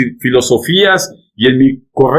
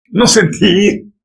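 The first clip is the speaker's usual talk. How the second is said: a high, slow mock of the excuse; mocking, drawn-out echo; 6 semitones higher, slower than usual. Preacher repeats the member's excuse, slow and mocking. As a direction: repeat the excuse back slowly and scornfully.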